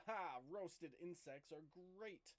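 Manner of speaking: loud, high triumphant shout; called-out battle taunt. Acted. Player voicing his character at the spider, called out loudly. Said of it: "he'll call out".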